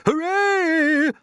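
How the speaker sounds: high, loud joyful cheer; shouted cheer. Acted. Grasshopper cheering James's catch, loud high cheer. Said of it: "shouted the old green grasshopper".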